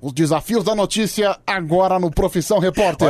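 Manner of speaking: lightly imitated TV reporter intonation; a hint of a news reporter's programme intro; mild mock-reporter delivery; Caco Barcelos. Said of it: "na entonação da voz dele".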